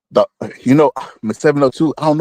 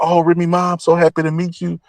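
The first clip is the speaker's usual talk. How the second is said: groupie fan; 6 semitones higher than usual. Retold or imitated. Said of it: "like a groupie man".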